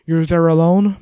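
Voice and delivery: half-screech it down the phone; shouting. A narrator's reading. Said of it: "shouting again. Screeching, more like".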